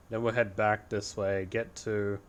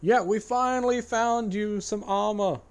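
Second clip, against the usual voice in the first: playful put-on voice; 11 semitones higher, 5 dB louder than usual. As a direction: say it again as a playful character. Repeats it in put-on voice.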